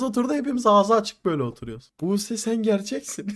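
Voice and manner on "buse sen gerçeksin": laughing mock greeting. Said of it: "Böyle demedik de tabii".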